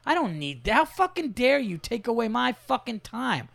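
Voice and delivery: high-pitched indignant complaint; mock-outraged inner rant; retold exasperation. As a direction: act out being outraged at the intrusion. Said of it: "And I'm just like".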